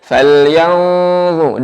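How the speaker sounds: falyanzu with a heavy, full zu; thick letter. Shown as a demonstration. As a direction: darken the zu, slow. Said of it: "Sekali lagi".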